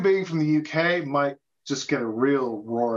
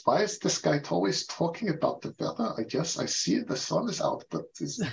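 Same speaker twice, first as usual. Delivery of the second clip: mock bafflement; 3 semitones higher, 4 dB quieter than usual. Voices puzzled foreigner facing small talk.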